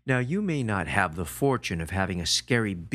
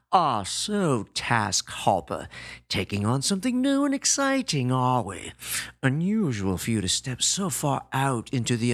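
mocking gorilla. Gorilla mocks his new project.

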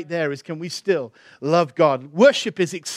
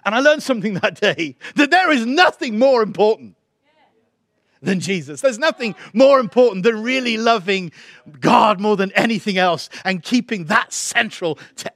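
raised, forceful sermon delivery; emphatic preaching; 5 semitones higher, 5 dB louder than usual. Real, not acted. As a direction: drive the lesson home to the congregation.

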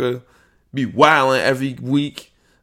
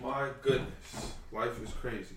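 muttering; 16 dB quieter than usual. Real, not acted. Muttering after interruption.

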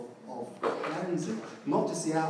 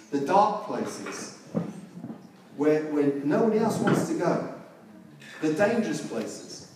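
emphatic preaching; 4 dB louder than usual. Real, not acted. Preaching climax, go to brokenness.

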